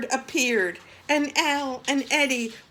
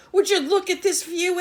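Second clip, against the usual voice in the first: awed exclaim; 7 semitones higher, 7 dB louder, faster than usual. Acted. Eddie marvels at the island.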